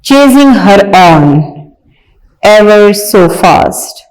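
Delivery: reading a poem aloud slowly, word by word. Shown as a demonstration. Teacher reading a poem to young pupils, slow and clear. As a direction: recite each word clearly for the class. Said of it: "आइए पढ़ते हैं".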